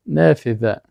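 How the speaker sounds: careful model of نافذه, ذ like th in "this"; tongue-tip dhal. Shown as a demonstration. Teacher demonstrating dhal in a sample word, tongue-tip pronunciation.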